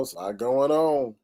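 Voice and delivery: slow whispered repeat. Shown as a demonstration. Vlogger whispering the line again to viewers, slow. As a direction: drop to a whisper and draw it out.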